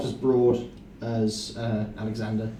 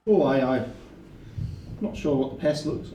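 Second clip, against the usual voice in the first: higher servant voice slipping into Scottish; unintended Scottish character accent; accidental Scottish accent; 3 semitones higher than usual. Acted. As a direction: play the servant with a Scottish lilt. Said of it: "well, I've gone Scottish".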